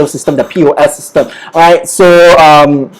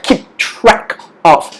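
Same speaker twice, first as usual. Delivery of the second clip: slow model phrase; 3 semitones higher, 4 dB quieter, much slower than usual. Shown as a demonstration. Teacher models for learners at home, slow and spaced out. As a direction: keep track of, slowly, word by word. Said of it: "Say it with me if you're at home".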